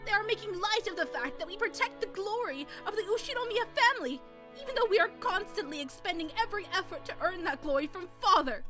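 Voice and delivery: upset wife pleading. Acted. Natsuhi confronting husband.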